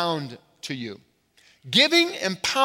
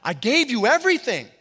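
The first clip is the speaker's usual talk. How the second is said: imitated complaint; 4 semitones higher, faster than usual. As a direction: voice a wounded believer pleading with God. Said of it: "look back and say".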